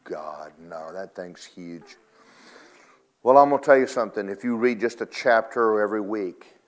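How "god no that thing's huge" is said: dismayed groan. Retold or imitated. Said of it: "they looked at it and went".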